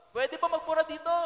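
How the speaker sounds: high imitated yell to a crowd; retold shout. Concert performer shouting to the crowd, high mock yell. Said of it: "yung isang performer dyan sumigaw".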